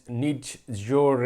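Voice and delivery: slow mock German "nicht your"; German-accented "nicht your", drawn out; lightly put-on German accent on "nicht your". Shown as a demonstration. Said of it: "in German accent".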